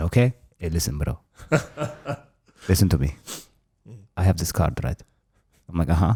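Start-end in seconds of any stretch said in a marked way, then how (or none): 0.0-5.0 put-on Armenian accent, bro-to-bro pitch. Retelling a call about a stolen card, the speaker does a put-on Armenian accent. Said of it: "I have the right to do this accent".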